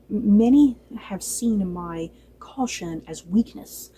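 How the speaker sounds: slow, measured hint of a queen's threat; understated cold declaration; mild regal menace. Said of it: "Emma Darcy ... said this whole thing so well".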